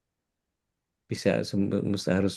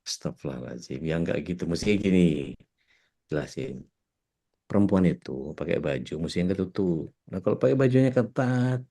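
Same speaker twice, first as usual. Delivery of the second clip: pretend phone explanation. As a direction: explain into the phone, meant to be overheard. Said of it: "memperdengarkan seolah-olah ada yang nanya". (pura-pura menjelaskan di telepon, nada rendah)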